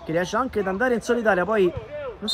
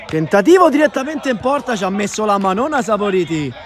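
excited; 6 dB louder than usual. Real, not acted. Shot saved by keeper.

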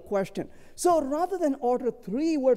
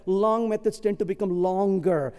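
quoting a grim pronouncement, slightly lowered; mock grim; 3 semitones lower than usual. Speaker quoting a grim colleague to the audience, mock grim. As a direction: deliver it with understated doom. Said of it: "somebody said very grimly".

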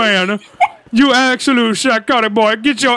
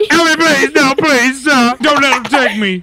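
panicked pleading; 3 semitones higher than usual. Acted. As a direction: beg for rescue in mock panic. Officer pleads while being carried off.

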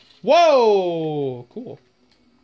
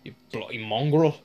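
lightly voiced Irish tough guy; a hint of an Irish brogue, growled at the zombies; imitating the Irish guy; 3 semitones lower than usual. Gamer mimics the game's Irish badass, lightly Irish. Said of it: "I'm gonna be imitating him a lot".

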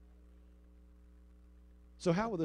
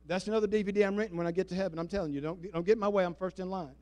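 ordinary talk, nothing marked

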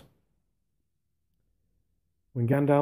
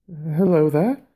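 raised call across the rocks; 7 semitones higher, 6 dB louder, slower than usual. Acted. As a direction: call out to the stranger. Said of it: "he called with a shaky voice".

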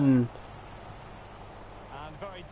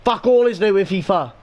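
swearing tirade; 2 semitones higher than usual. Real, not acted. Ranting about FIFA.

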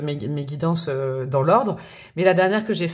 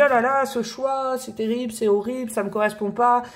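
lightly mock dismay, pitched up; imitated dismayed commenter; 4 semitones higher than usual. Tarot reader quoting viewers' comments about a choice, mock dismay. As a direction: mimic a complaining viewer, a touch higher. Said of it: "des commentaires de temps en temps où on me dit".

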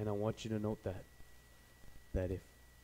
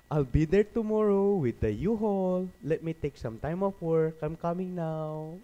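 high, slow sarcastic dad voice; drawn-out mock promise, pitched up; 6 semitones higher, 7 dB louder than usual. Dad sarcastically offering to come get his son, high and slow.

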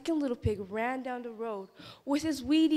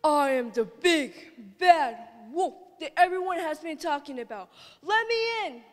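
wolf voice; 3 semitones higher, 5 dB louder than usual. Acted. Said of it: "said the wolf".

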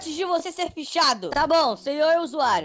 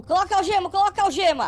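barking order; 4 semitones higher, 3 dB louder, faster than usual. Acted. Cop orders handcuffs.

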